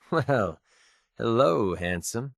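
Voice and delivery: drawn-out flirty greeting; flirtatious. Acted. Greeting a handsome partner, flirtatious. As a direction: greet them with playful interest.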